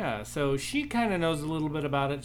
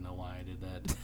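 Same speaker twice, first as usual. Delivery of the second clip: laughing; 6 semitones lower, slower than usual. Real, not acted. Laughing at own whisper.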